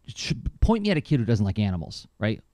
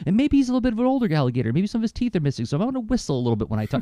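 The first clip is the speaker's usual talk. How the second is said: light imitation of an old Cajun alligator, higher and fast; mock Cajun accent of an old gator, higher and quicker; Peter Cullen's Cajun accent; 10 semitones higher, much faster than usual. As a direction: retell it in a hinted Cajun accent, quick and raised. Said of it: "he switched his voice into a Cajun accent".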